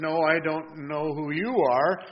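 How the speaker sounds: slow, mildly thrown answer; caught off guard. Retold or imitated. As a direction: retell his startled reply, taking time. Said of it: "caught a little off guard".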